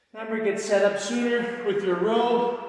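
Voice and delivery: loud coaching cue; barking gym coach. Real, not acted. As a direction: call it out to the whole class. Coach cueing class before set.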